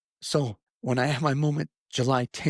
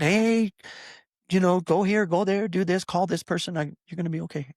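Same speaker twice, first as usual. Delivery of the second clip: mock divine orders; 6 semitones higher than usual. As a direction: rattle off the orders like a bossy voice. Mocking expected busy divine orders.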